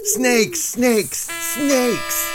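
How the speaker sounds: loud, high hawker's yell; shouting snakes. Acted. Pet seller yelling to buyers, high and loud. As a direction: bellow it like a street seller.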